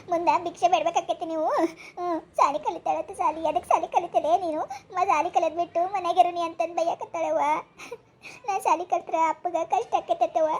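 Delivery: acted crying with sobbing breaths; whimpering, hurt child; tearful complaint. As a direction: report the scolding through tears. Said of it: "ಯಾಕ್ ಅಳಕತ್ತಿದಿ?".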